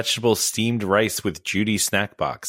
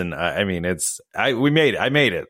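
hoarse voice. Real, not acted. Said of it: "I've tried to truck through this".

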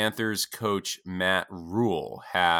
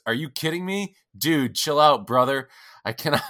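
overjoyed player; 7 semitones higher than usual. Retold or imitated. Draft pick reacting to the coach's phone call, excited. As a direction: burst out with joyful disbelief. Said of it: "And he goes".

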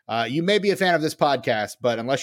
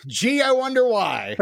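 sarcastic; 10 semitones higher than usual. Acted. Sarcastic reply about the band.

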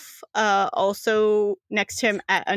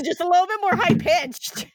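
pitched well up, coaching; higher pitch; 7 semitones higher than usual. Shown as a demonstration. Game master showing a player her character, high-pitched. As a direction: demonstrate a higher version of the voice. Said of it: "You talk like you".

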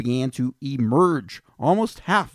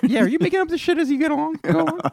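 mocking high voice; faster than usual.

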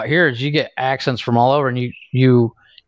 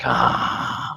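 reluctant sigh; 4 dB quieter than usual. Retold or imitated. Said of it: "and I'm like".

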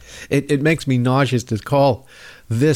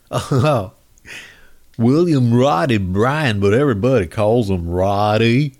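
mock Southern accent; 2 semitones lower than usual. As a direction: draw the name out in a mocking Southern accent. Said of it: "hearing Southern accents".

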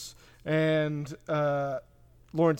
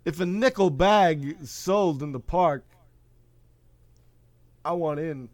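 Christopher Walken impression. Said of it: "Do you know how to do a Christopher Walken?".

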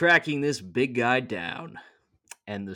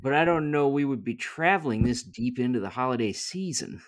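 Joseph voice; 2 semitones higher than usual. Acted. Joseph voiced in nativity read.

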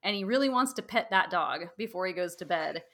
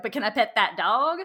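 put-on kid's Southern twang; 6 dB louder than usual. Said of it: "we'll be like".

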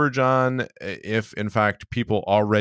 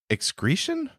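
much higher appalled question; mock horror; 13 semitones higher than usual. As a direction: squeal it in disgust. Absurd sentence reading.

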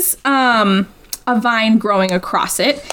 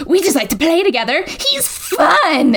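manic voice; 4 semitones higher than usual. Retold or imitated. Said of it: "he says in a manic voice".

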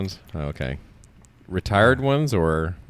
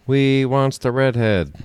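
loud, drawn-out, higher pirate call; Pirates ride character; 5 semitones higher, 5 dB louder, slower than usual. Acted. Co-host blurting a Pirates of the Caribbean line, pirate impression. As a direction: call it out slowly like a theme-park pirate. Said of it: "Pirates of the Caribbean".

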